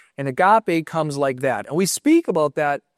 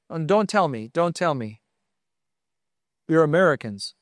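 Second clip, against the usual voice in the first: lightly imitated Swiss counter clerk's accent; a touch of a Swiss accent, retold; foreign counter-clerk accent. Airport clerk to American family at check-in, imitated Swiss accent. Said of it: "in this accent".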